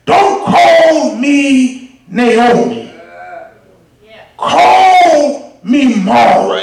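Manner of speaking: slow, weighted bitter plea. Acted. Naomi telling the townsfolk her new name, slow and bitter. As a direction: drag out each word, slowly. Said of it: "she says".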